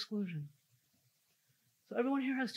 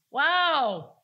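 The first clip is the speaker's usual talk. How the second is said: louder, higher jab with a laugh in it; blunt mocking remark; 6 semitones higher, 10 dB louder than usual. CEO mocking the coach's handwriting from behind, loud and laughing. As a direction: toss off the insult, half laughing. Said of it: "I hear this sentence".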